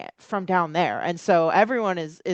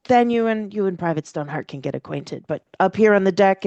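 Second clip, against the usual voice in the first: put-on old man voice; faster than usual. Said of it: "and so he says".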